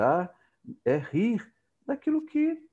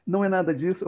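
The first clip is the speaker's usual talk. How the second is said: higher, louder, catching his dad out; playful gotcha, raised and loud; son teasing; 5 semitones higher, 5 dB louder than usual. Retold or imitated. Son caught his father's lie, excited and loud. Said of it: "Aí ele falou".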